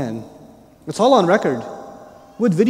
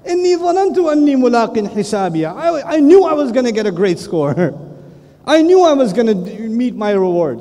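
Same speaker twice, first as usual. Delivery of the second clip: boastful cheer; 2 semitones higher, faster than usual. Retold or imitated. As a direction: hold up the book and gloat.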